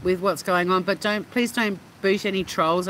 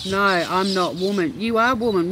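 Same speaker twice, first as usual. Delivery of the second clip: caveman voice. Retold or imitated. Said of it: "Why are you talking like a caveman".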